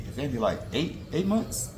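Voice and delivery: climbing to a high, loud squeal for the pup. Real, not acted. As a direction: coo the question at the puppy. Cooing over the puppy Andy.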